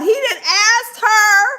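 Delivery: slow, crying with laughter; laughing disbelief. Real, not acted. Host reacting to the clip, slow crying laughter. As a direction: laugh so hard the words crack.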